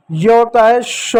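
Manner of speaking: drawn-out "श" said slowly as a hissing sh; slow letter sound. Shown as a demonstration. Teacher showing children the letter sound slowly. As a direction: say "श" slowly for the class. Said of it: "इसको पढ़ते हैं बच्चों श".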